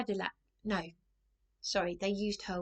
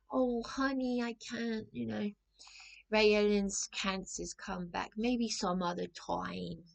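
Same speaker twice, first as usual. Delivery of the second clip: lightly imitated Brooklyn woman; Brooklyn accent; 2 semitones higher, slower than usual. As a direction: put on a drawn-out Brooklyn accent. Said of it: "she's got that Brooklyn accent".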